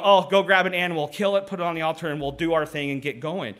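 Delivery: breezy, hurried mock of careless worshippers; offhand mock voice. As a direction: rattle it off like a routine chore. Acting out ritual-going people's casual attitude.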